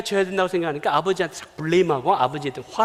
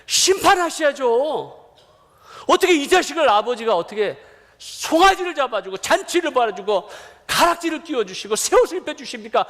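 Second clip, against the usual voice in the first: acted outrage, pitched high and emphatic; angry protest; 5 semitones higher than usual. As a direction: protest to the father like a resentful eldest son. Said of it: "아버지를 향해서 지금 분노하는 거예요". (아버지에게 분노하며 따지는 연기)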